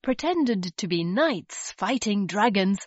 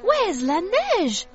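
surprised cry; 10 semitones higher, 3 dB louder than usual. Acted. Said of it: "cried Tilly".

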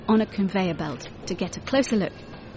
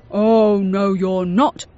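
louder, stern no; firm refusal; 7 dB louder, slower than usual. A narrator's reading. Security guard throwing them out, loud and firm. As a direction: put your foot down.

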